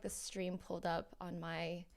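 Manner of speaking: unvoiced aside whisper; quick whispered aside while checking the stream. Real, not acted. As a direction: whisper it to yourself, off mic. Streamer checking screen mid-stream.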